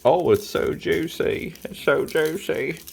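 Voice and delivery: high mocking voice, "oh" stretched long; mocking the clueless. Cook mocking people who call grease juice, high and sneering. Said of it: "Mofos think".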